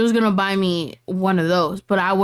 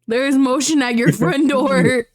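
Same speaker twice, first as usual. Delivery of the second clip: doorbell camera alert; 3 semitones higher than usual. Retold or imitated. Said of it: "The Ring camera's gonna come up".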